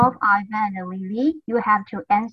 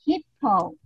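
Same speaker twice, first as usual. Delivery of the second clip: leader call; 5 semitones higher than usual. Shown as a demonstration. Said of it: "everyone repeat after me".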